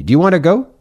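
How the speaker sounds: high, eager genie offer; a lightly voiced eager genie. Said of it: "said the genie".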